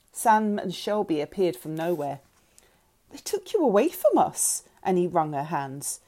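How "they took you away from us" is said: high, distressed protest; anguished plea. A narrator's reading. Mother wringing her hands at daughter, anguished. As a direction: plead with raised pitch, upset.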